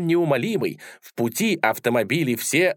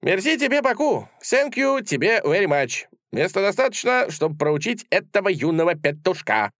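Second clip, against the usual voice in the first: high, pleased little fencer voice; cocky delight, pitched well up; tiny swordsman gloating in a high voice; satisfied; 8 semitones higher than usual. A narrator's reading. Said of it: "удовлетворённо сказал".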